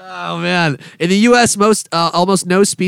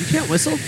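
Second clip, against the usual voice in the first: chirping cricket voice; 12 semitones higher, 4 dB quieter than usual. Acted. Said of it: "Was that a cricket impression?".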